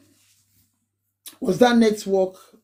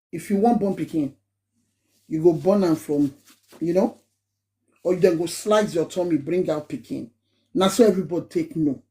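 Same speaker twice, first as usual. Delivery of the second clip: switching into Nigerian Pidgin, casual and quick; relaxed Nigerian Pidgin banter; Pidgin English; 3 semitones lower than usual. Shown as a demonstration. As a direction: slip into Nigerian Pidgin like chatting with friends. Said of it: "you can see me switch to Pidgin English".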